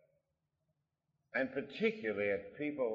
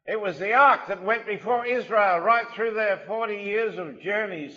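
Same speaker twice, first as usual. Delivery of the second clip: forceful preaching; 11 semitones higher, 12 dB louder than usual. Acted. Preacher exhorting his congregation, loud and forceful. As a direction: drive each line home to the congregation.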